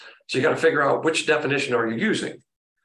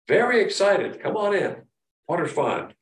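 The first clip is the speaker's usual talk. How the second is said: excited; 4 semitones higher than usual. Shown as a demonstration. Acting out object-focused love.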